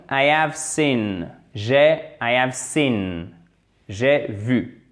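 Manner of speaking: "I have seen" very slow and clear; slow model sentence. Shown as a demonstration. Teacher drills "I have seen" very slowly. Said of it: "faites bien attention à ça".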